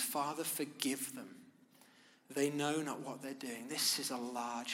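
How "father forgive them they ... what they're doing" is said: tender forgiveness. Retold or imitated. Preacher dwelling on Jesus forgiving his killers, soft and tender. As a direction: let the words fall softly, full of mercy. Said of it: "His answer is forgiveness".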